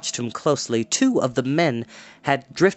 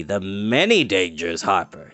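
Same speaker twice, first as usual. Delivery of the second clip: grim; 5 semitones lower than usual. A narrator's reading. Dorath warning the harper, low grim menace. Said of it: "he grimly added".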